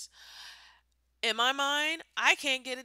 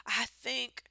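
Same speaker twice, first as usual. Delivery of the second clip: bubbly stoned YouTuber, mocked; mocking YouTuber. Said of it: "And they go like".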